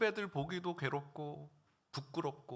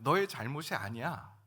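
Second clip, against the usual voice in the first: a hint of God's gentle voice; God's comforting voice; 4 semitones lower than usual. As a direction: console a grieving servant gently. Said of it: "이렇게 들린 거예요".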